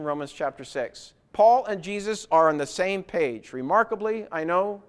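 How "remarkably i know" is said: lightly facetious mock amazement; tongue-in-cheek aside. Real, not acted. Preacher joking that Paul and Jesus agree, facetious. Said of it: "I meant that facetiously".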